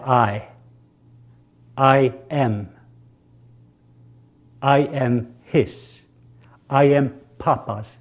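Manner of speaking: slow declaration. Shown as a demonstration. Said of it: "And now I want you to say it".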